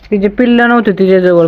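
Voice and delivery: ordinary talk, nothing marked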